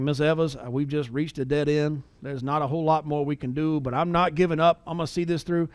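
lightly imitated Southern lawyer, r's dropped; a hint of movie Southern accent. Lawyer on a payphone to the widow, mild Southern accent. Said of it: "in his horrible Southern accent".

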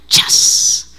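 quick hushed whooshing "chas"; imitated sound effect. Preacher mimics his pastor's special effects for the congregation, imitated whoosh. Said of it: "¿Cómo dice el pastor que le hacen?".

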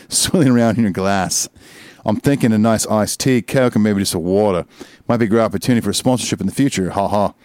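put-on Australian accent. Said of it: "Are you doing it in the accent or not?".

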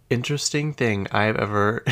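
usual speaking voice

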